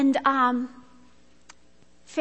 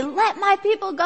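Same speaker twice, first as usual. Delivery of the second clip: higher, mildly commanding demand; a modest stab at a prophet's command; attempted Charlton Heston; 5 semitones higher than usual. Moses confronting Pharaoh, mildly commanding. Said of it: "I don't have a Charlton Heston voice".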